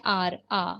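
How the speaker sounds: "आर, आ" begun on the vowel, no H sound; silent H. Shown as a demonstration. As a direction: sound out "आर, आ" slowly, leaving the H silent. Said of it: "ह वाला sound नहीं आ रहा है".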